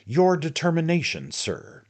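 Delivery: high, loud scornful repeat; mocking echo; scornful retort. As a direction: throw his words back with scorn.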